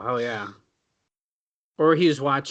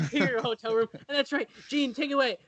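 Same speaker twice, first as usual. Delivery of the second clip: high, softer promo sign-off; Ric Flair; 8 semitones higher, 6 dB quieter than usual. Acted. Wrestler handing back to interviewer, high promo voice. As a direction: wrap up the mock wrestler promo, pitched up. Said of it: "Rick, what do you gotta say".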